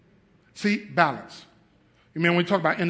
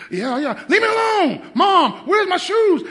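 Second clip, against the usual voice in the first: high, loud whiny brush-off at mom; mock lazy grown son; 12 semitones higher, 8 dB louder than usual. Grown son whining at his mom from the couch. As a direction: whine like a spoiled man on the couch.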